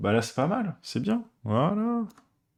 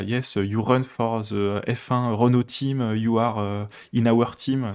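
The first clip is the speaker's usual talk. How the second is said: mock English accent; slower than usual. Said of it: "qui parle avec un accent anglais".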